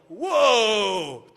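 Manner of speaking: loud drawn-out whoa; hammed-up wonder; mock awe. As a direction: act blown away. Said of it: "And I'd go".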